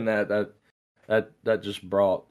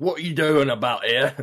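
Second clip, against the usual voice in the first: gruff voice; 6 semitones higher, 7 dB louder than usual. Retold or imitated. Facebook voiced as gruff caller.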